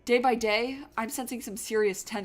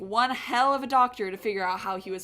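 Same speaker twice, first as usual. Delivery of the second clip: cocky detective voice; 3 semitones higher, 6 dB louder than usual. Acted. Voices Renegade in the game.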